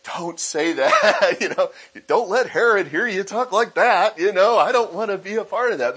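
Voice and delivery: laughing, mock-nervous townsfolk hushing. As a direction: laugh it off and hush them, half-scared. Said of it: "they're like".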